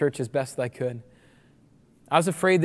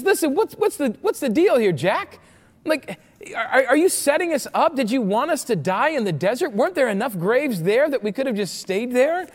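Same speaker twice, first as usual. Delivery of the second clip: mock-outraged, higher-pitched protest; indignant complaint; 6 semitones higher than usual. Preacher acting out Israelites confronting Moses, indignant complaint. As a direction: challenge him in animated disbelief.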